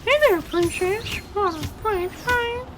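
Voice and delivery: high, lazy sleazy flirty cartoon voice; soft lazy flirty drawl. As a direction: drag it out, a creepy cartoon flirt. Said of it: "I've been doing that voice a lot longer".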